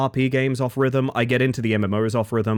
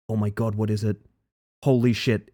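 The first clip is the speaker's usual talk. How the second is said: ordinary delivery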